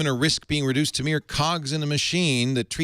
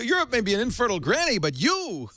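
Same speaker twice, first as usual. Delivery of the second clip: hint of a Borscht Belt Jewish accent, pitched up; mock Jewish accent; 9 semitones higher than usual. Host voicing the Pope teasing Google, in a light Jewish accent. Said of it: "why he had a Jewish accent".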